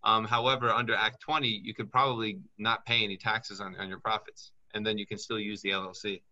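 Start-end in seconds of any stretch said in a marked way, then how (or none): none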